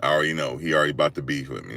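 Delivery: low, soft and fast; quiet hurried aside. Retold or imitated. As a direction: mutter it under your breath. Girl whispering about security guard.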